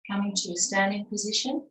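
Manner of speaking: measured yoga-teacher cueing, pausing between phrases; evenly paced breathing instructions; guided breathing. Acted. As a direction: lead the class calmly through each breath. Leads movement with breath.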